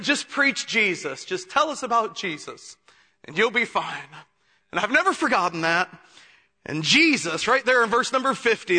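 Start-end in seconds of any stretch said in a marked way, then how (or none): 0.0-4.2 gentle advice. Retold or imitated. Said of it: "Then he said".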